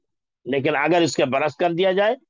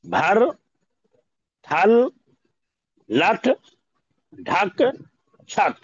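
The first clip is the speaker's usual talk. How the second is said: loud drill reading; 5 semitones higher, 5 dB louder, much slower than usual. Shown as a demonstration. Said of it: "क्या है?".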